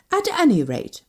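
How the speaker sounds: high, pointed retort; spiteful. A narrator's reading. Woman threatens to tell all, spitefully. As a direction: jab back with a touch of spite. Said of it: "I said spitefully".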